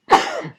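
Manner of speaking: one loud sudden sneeze; real sneeze bursting out; sneezing. Real, not acted. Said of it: "I'm gonna sneeze".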